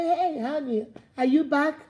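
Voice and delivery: mildly pleading, like an innocent partner; innocent gentle greeting. Acted. Partner welcoming honey home after being snapped at, gently innocent. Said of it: "I just say".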